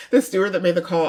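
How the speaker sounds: laughing through the words; breaking into a laugh mid-phrase. Real, not acted. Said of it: "I'm not laughing that he got".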